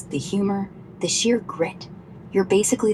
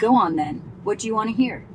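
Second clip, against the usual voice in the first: broad West Country accent; rustic West Country accent, a bit piratical; West Country twang. Shown as a demonstration. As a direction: talk like a cider-soaked West Country farmer. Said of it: "I can do a proper West Country twang".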